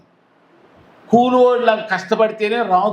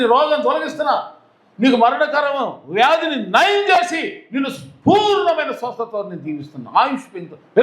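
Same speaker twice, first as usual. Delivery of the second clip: lightly voiced God, high and proclaiming; God speaking; 5 semitones higher than usual. Preacher voicing God promising healing to the weeping, raised and proclaiming. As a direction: announce comfort to the weeping like God. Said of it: "అనే దేవుడు అనాలి".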